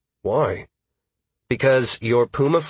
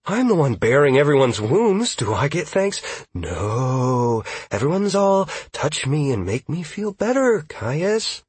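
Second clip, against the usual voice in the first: mock outrage; 5 semitones higher than usual. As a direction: play up the hurt indignation. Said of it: "Caius grunted in mock outrage".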